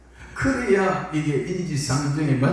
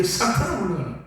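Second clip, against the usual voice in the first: stern rebuke; 5 semitones higher than usual. Acted. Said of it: "근데 이제".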